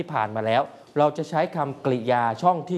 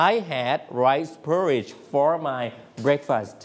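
slow repeat; much slower than usual. Shown as a demonstration. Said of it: "ทวนใหม่".

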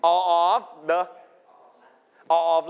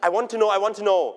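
lightly acted eagerness to find out; eager curiosity; 3 semitones higher than usual. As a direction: play a viewer itching for the answer. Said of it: "a lot of wonder and curiosity". (อยากรู้อยากเห็นแบบแสดงเบาๆ)

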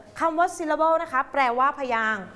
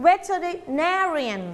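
"Veterinarian" with NAR said strongest; stress on fourth syllable; 3 semitones higher, much slower than usual. Shown as a demonstration. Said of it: "ควานพูดเสียงดังกว่าเพื่อน".

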